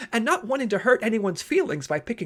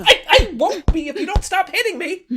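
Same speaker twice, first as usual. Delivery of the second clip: higher, laughing through the ows; pained laughing plea; 8 semitones higher, 5 dB louder than usual. Acted. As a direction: beg her to stop, half laughing. Pleading while being hit.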